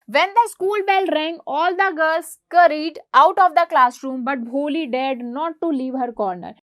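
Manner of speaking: slow, deliberate read-aloud of the English text; slow textbook reading. A narrator's reading. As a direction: read each word out slowly for the class.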